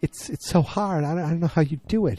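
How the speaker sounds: high, breathless distress at the start; upset pleading. Retold or imitated. Allison crying to Peggy about Don, high upset pleading.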